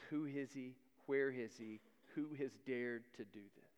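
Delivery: a hint of a seething king; angry king. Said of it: "the king is angry".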